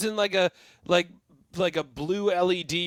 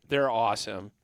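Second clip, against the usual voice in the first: put-on Aussie accent; 8 semitones lower, 4 dB quieter than usual. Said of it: "Aussie accents are pretty great".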